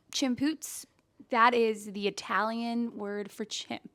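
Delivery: deadpan mock fact, matter-of-fact; slow, even and totally serious; straight-faced. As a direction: deliver the made-up fact dead straight. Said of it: "He is so straight-faced when he says stuff".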